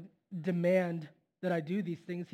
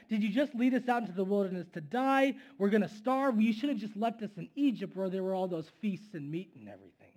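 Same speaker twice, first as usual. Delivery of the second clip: mock complaint. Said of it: "they complained again at God".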